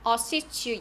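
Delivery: "Assist you" joined as "assis-chu"; linked sounds. Shown as a demonstration. Teacher shows students the linking, "Assist you" joined. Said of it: "연음해 주시고요".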